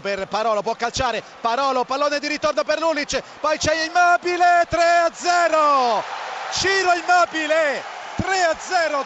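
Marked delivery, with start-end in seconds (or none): 3.4-9.0 goal call. Real, not acted. Third goal called. (urlo del gol)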